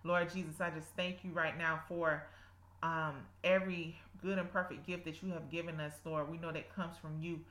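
earnest spoken prayer. Acted. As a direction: pray aloud with devotion. Leads a prayer.

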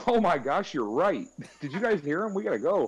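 high, loud fake fluster; mock embarrassed coworker. Imitating friend dropping a pencil, overdone. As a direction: gush over dropping a pencil. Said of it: "man, we gotta get going".

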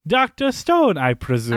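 menacing villain drawl; Bond villain. Acted. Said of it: "just sounded like a Bond villain".

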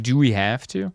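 mild, understated reluctance, rising at the end; reluctant question. Retold or imitated. Comedian to production manager about another show, mildly reluctant question. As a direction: ask with a touch of dread.

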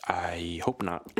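slow whispered confession; whispering. Real, not acted. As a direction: whisper it, embarrassed. Hushed sheepish reply.

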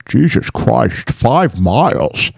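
slow, drawn-out impression of a film star; measured, slow movie-star voice; Sean Connery. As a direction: stretch each word in an imitated accent. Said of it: "Sean Connery just goes in his voice".

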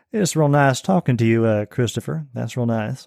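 a lightly voiced, polished Southern accent; a hint of a genteel Southern gentleman; refined Southern accent. Shown as a demonstration. Guest demos a refined Southern accent to the host. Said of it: "some of them are more refined than, than others".

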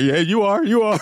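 high, meek giving in; high meek yes; mock sheepish agreement. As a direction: agree fast and back off. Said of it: "I'm like".

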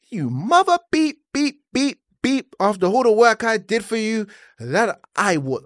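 high-pitched indignant rant with spoken bleeps; retold anger. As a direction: act out outraged cursing, censoring yourself. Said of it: "quickly moved to anger".

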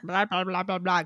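put-on quiet, low run of baby babble; babbling toddler. Toddler answering his dad about eagles, lightly mimicked babbling. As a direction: lightly imitate a tot's nonsense babble. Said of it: "'cause he can't talk yet".

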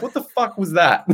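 high-pitched imitation of annoyed bafflement; mock mad reaction. Housemate reacting to his frog voice, mock mad. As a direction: imitate someone appalled by a silly voice. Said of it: "started getting mad at me".

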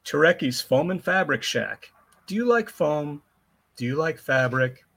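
upbeat commercial announcer; ad read. Shown as a demonstration. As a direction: sell it like a radio spot. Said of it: "Let's be professional here".

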